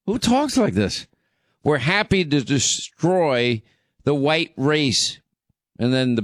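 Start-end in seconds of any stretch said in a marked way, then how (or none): 0.1-1.1 who talks like this, pitched way up in disbelief; incredulous. Real, not acted. Host repeating the question in disbelief, way up high. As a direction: throw it up high, aghast.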